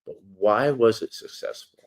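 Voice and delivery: steady read-aloud narration; reading an essay. Acted. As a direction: read the article aloud, measured. Reads his article aloud.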